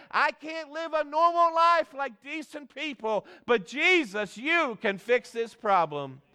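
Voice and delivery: imitated cry for help, slowing on the last words; pleading cry. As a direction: plead as the outcast, pitched high at first. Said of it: "this leper was crying out".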